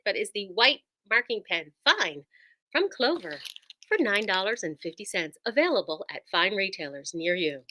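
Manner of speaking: polished sales phone voice. Acted. Seller pitching the white marking pen, phone voice. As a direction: deliver it like a retailer's product spot. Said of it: "phone voice".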